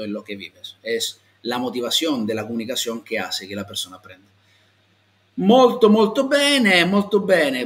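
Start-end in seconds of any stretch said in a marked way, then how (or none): 5.3-7.6 loud, high, delighted cheer; enthusiastic praise. Real, not acted. Teacher cheering a student who got it right, delighted shout. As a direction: cheer the student on with real joy.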